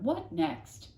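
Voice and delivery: a put-upon sigh of a question; fussy neighbour, weary; exasperated neighbour. Acted. Mrs Tickham exasperated.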